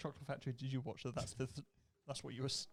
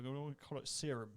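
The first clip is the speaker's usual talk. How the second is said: slow, hint of a Yorkshire accent. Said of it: "I always do that in the Yorkshire accent".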